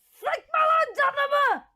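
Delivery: high, slow drawn-out complaint; squeaky character protesting slowly; high slow whine. Acted. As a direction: stretch it out in a high whiny voice. Squeaky character shouts back.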